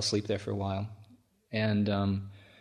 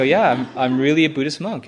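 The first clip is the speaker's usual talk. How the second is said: emphatic; 4 semitones higher, 8 dB louder than usual. Retold or imitated. Insisting to the doubting policeman.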